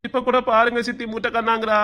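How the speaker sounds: whiny tearful tattle; sustained crybaby complaint to auntie; mock crying. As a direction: put on a wail while telling on someone. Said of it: "அட அழுவாத அஜய்".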